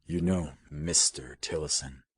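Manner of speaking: mild tone with "Mister" drawn out slightly; mild, slight emphasis. A narrator's reading. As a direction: lean gently on "Mister", unhurried. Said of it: "he said mildly".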